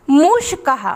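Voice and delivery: teacher demo of मूषकः; Sanskrit pronunciation. Shown as a demonstration. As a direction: sound the visarga of मूषकः as h. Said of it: "मेरे साथ आप भी उच्चारण करिए".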